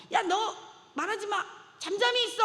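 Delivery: high, loud rebuke to hush him; harsh scolding. Acted. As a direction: crowd rebuking the blind man, loud and harsh. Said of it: "하고 꾸짖었을 거예요".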